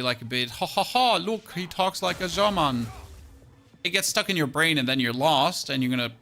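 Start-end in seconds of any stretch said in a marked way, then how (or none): 0.5-2.9 mocking taunt. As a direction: tease someone for sounding German. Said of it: "once you start with a German accent again".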